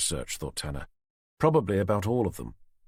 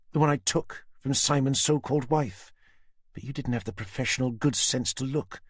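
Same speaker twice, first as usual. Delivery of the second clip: high, cold threat; Susan's menacing voice; 6 semitones higher than usual. A narrator's reading. Susan threatening Tanner with the knife at Jenny's throat. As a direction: savour the threat.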